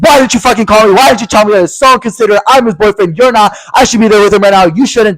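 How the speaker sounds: put-on high-pitched scolding boyfriend; hammed-up high complaint; mock angry yelling. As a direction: imitate an indignant boyfriend telling you off. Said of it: "Stop fucking yelling at me".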